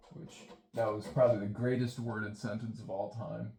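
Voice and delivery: dry sarcastic remark; mock praise of own sentence. Real, not acted. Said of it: "I'm being sarcastic".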